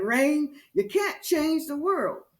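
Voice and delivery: emphatic mother. Retold or imitated. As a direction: retell a mother firmly setting her child straight, pitch lifted. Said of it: "She would always say emphatically".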